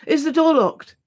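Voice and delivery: high, anxious, pressing question; feverish. Acted. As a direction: ask it feverishly, afraid of the answer. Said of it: "he asked feverishly".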